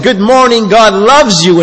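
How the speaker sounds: "Good morning, God loves you" pitched high and sing-song, as a mangled Chinese attempt; mock a beginner's botched Chinese tones; wrong tones. Young intern greeting the Chinese group, botched tones. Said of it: "but I changed the inflection".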